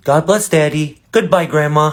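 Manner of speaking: put-on praying child. Child praying, voiced higher.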